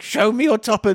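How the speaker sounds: a lightly put-on sketch voice; quoted sketch voice. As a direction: toss off the Mother sketch line. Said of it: "That's from the Mother sketch".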